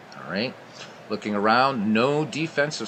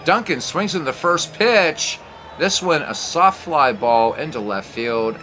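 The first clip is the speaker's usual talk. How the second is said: play-by-play call. Acted. Live play-by-play of replay.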